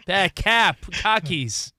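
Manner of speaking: hammed-up Boston accent with dropped r's; clumsy mock Boston accent; bad Boston accent. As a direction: try Boston and get it wrong. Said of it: "I suck at Boston accents".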